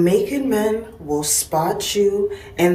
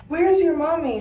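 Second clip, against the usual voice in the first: put-on sweet voice to a child; 12 semitones higher than usual. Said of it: "I'm like".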